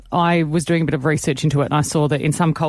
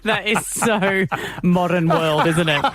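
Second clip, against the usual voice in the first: laughing; slower than usual. Real, not acted. Laughing at husband's video stunt.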